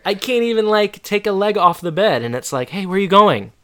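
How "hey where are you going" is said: mock nagging wife. Wife's alarmed call, retold.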